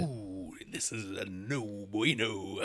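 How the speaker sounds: very soft, low podcast voice; put-on hushed podcaster voice. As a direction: drop down close to the mic, hushed. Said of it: "This is my new podcast voice".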